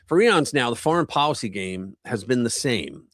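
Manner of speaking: punchy, animated commentary read; article narration. Acted. Streamer reading political commentary to viewers, lively emphatic narration. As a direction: read it out with emphatic swings in pitch.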